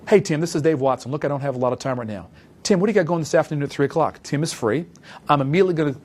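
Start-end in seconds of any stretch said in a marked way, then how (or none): 0.1-4.2 quick, businesslike phone opener, rushing the last line; in a hurry. Shown as a demonstration. Salesman rushing a prospect on the phone, brisk and busy. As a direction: sound short on time without being rude. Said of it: "Back to step one first".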